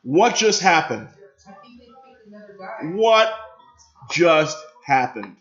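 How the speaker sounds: loud, drawn-out, high-pitched cry of disbelief; real shock, stretching every word out; stunned disbelief. Real, not acted. Stunned reaction to a shock draft pick.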